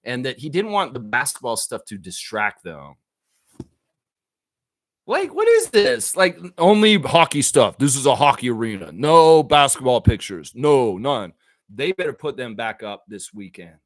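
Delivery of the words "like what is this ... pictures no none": mocking Shanahan. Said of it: "his reasoning is that".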